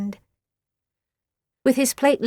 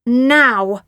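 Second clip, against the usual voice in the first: louder sharp command; glaring; 2 semitones higher, 8 dB louder than usual. A narrator's reading. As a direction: bark it like an order. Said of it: "glared Nellie".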